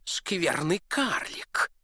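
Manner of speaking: slow, drawn-out angry cry; duke shouting. Acted. Duke at the dwarf, an angry drawn cry. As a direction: spit the insult at the dwarf. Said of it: "закричал он".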